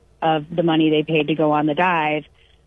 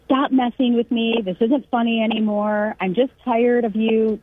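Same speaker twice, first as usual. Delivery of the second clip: mild mock yelling; 5 semitones higher than usual. Girlfriend fed up with his fake proposals, mildly mock-yelled. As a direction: imitate a fed-up telling-off without really shouting. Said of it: "she just started yelling at him".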